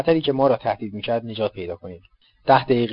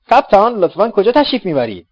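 higher, brighter teasing question; playful mock formality; 9 semitones higher, 8 dB louder than usual. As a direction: tease the captain politely.

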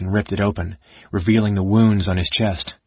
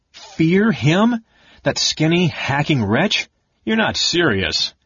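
scornful laughing; 7 semitones higher, slower than usual. A narrator's reading.

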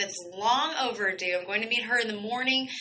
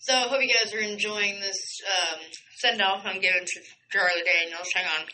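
mouth full. Real, not acted. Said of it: "I'm eating a burger in here".

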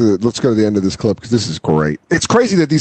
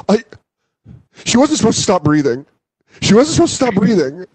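higher-pitched, hammed-up panic; mock panicked confession; 7 semitones higher than usual. Acted suspect explaining himself to police, mock panic. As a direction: plead it like a cornered suspect, mockingly.

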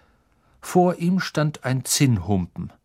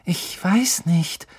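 slow, hushed hesitation; slow and thoughtful; 7 semitones higher, slower than usual. A narrator's reading. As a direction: weigh each word slowly. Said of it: "sagte Hermine bedächtig".

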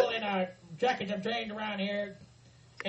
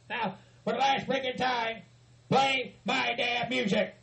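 slow mock bellow. Final demand for music.

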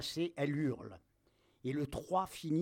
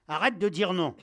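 loud, raised-pitch angry order; exasperated shout; 4 semitones higher, 9 dB louder than usual. Acted. Captain to soldier repeating no, exasperated shout. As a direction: cut off his refusals loudly.

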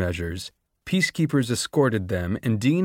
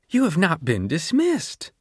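higher, icy and clipped authority; cold rebuke; 7 semitones higher than usual. A narrator's reading. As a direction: put the student in his place. Doctor Gall rebukes student.

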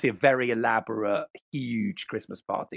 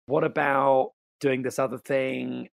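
mock LA talk; slower than usual. Shown as a demonstration. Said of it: "I'll do a U K version of it".

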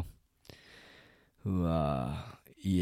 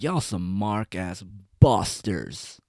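imitating the YouTuber; slower than usual. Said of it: "He's like".

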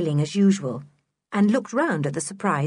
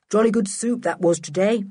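cheerful; 2 semitones higher than usual. Acted. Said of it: "said Julian cheerfully".

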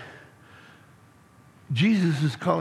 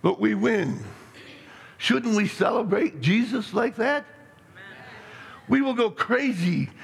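rousing challenge; 5 semitones higher than usual. Real, not acted. Pastor urges joyful celebration.

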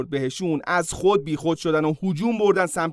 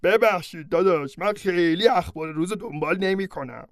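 centaur voice, sorry then consoling; apologetic centaur friend. Acted. Centaur friend consoling Hercules, apologetic then warm. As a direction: comfort a grieving buddy.

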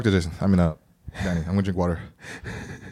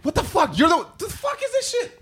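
exasperated, pitch climbing mid-outburst; real frustration; 3 semitones higher than usual. Real, not acted. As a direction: vent frustration at a co-host. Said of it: "I'm frustrated".

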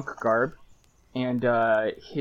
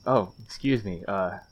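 lightly voiced, hesitant stranger; 4 dB louder than usual. A stranger speaks to Lucky in a lightly voiced, hesitant way. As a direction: stumble politely over the words. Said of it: "an unfamiliar voice sort of go".

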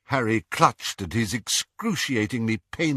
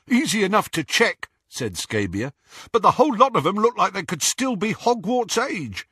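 sneering Scabior; 12 semitones higher than usual. Acted. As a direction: jeer at the lie. Scabior voiced high.

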